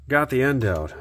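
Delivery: breathless after pulling wire; puffing, short of breath. Real, not acted. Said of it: "I'm out of breath".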